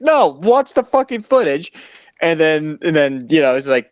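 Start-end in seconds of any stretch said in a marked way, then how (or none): 0.0-1.7 indignant fan. Retold or imitated. Fans at party snapping back at wrong call, outraged. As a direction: play the furious fan shouting him down.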